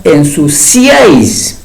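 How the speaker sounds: "ensuciáis" with the accented í drawn out; stress on the I. Shown as a demonstration. Teacher showing a broken triphthong, stress on the í of "ensuciáis". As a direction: stress the í in "ensuciáis", breaking it from "áis". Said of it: "ahí está el acento ortográfico en la I".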